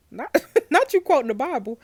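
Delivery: high laugh breaking through; laughing disbelief. Real, not acted. Gamer mocking the killer's Bible quote, laughing.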